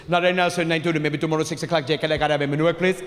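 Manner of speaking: a lightly voiced fast-talking phone agent; rattled-off accented reply. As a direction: rattle it off in a call-center accent. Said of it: "You wanna rewind that".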